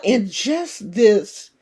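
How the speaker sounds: ordinary talk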